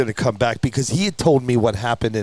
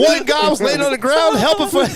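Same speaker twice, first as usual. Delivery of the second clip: very high, louder mimicked accent, near laughter; Keith West's accent; 4 dB louder than usual. Witness describing the fallen toy driver, in Keith's accent. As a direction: squeal it out in his accent. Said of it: "he's got that accent".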